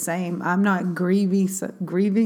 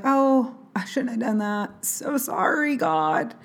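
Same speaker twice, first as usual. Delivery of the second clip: mock flippant sorry; 3 semitones higher, 4 dB quieter than usual. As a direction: toss off the apology without meaning it. Mock shallow worldly sorrow.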